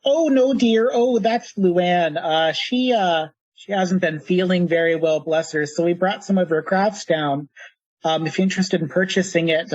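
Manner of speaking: put-on light Minnesotan granny accent; Minnesotan grandmother. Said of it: "slipping into a Minnesotan accent for grandmothers".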